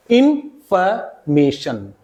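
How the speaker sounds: इन्फॉर्मेशन broken slowly into in-fuh-may-shun; weak FOR syllable. Shown as a demonstration. Teacher building the word for students, slow in-fuh-MAY-shun इन्फॉर्मेशन. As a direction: sound out इन्फॉर्मेशन piece by piece, middle reduced to fuh. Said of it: "for की जगह फे हो जाएगा".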